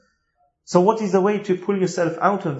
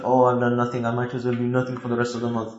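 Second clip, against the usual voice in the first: self-pity; 6 semitones lower, 3 dB quieter than usual. Retold or imitated. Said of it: "think to yourself".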